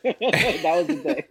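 slow, laughing reminder. Real, not acted. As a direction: chuckle the words out. Remembering the drunk day.

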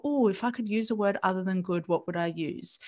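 calm, light curious question to yourself; gentle inquiry. Shown as a demonstration. Showing listeners the kind way to ask, in gentle inquiry. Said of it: "It's just gentle inquiry".

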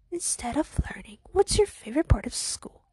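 creepy, whispery questioning; kinda creepy. Acted. Girl pressing classmate for her favorite part, creepy. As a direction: half-whisper the question to unsettle them. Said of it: "kinda creepy".

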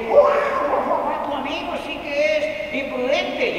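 high, laughing mother's voice; imitating the mom. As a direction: play the amused mom with a giggle. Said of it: "si la mamá dice".

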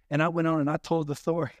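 mock toothless lisp; toothless speaker. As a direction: talk as if you had no teeth. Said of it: "didn't have any teeth and they talk like this".

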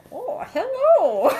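slow, high, laughing mock hello; mock greeting. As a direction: drag out a silly hello. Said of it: "He's like".

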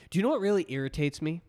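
a touch of ad voice, rising; hard sell ad. Acted. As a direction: ask it like a commercial opener. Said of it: "You said it like an ad".

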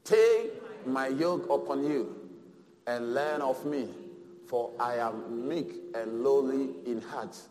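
congregation reading aloud in unison; slow group recitation together; man and woman together. Shown as a demonstration. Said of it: "Can we read together".

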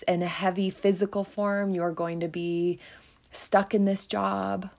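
mock the harsh voice in your head; loud critical head talk. Inner critic berating you, mildly loud nagging. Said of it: "why is that head talk so loud".

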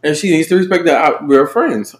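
talking with a mouthful; words around a bite of mac and cheese; chewing while talking. Real, not acted. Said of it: "I'm chewing this mac and cheese".

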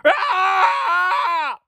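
hammed-up high scream into a roar; imitated background screaming. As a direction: roar it like a kid playing Hulk. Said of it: "in the background just screaming".

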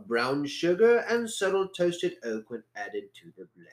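put-on reading a wine label in a posh English accent. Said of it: "my best posh accent".

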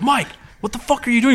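high, incredulous shout; exasperated yell. Retold or imitated. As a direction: yell at him in disbelief. Trevor yelling at Mike.

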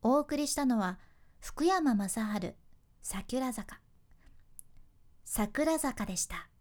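calm DJ intro, ending 桜坂でした slowly and firmly; confident DJ. Shown as a demonstration. Radio host demonstrating a composed, confident DJ outro. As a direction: finish steadily like an unshaken pro. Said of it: "終わりをしっかり堂々とする".

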